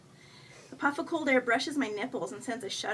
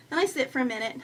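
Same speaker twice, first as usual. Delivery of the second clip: plain reading voice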